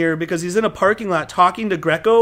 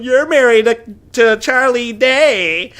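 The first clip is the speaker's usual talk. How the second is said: high, slow gushing coworker voice; mock excited coworkers; 4 semitones higher, 3 dB louder, slower than usual. Coworkers gushing to Leah about her husband, mock excited. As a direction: drag out Charlie Day in awe.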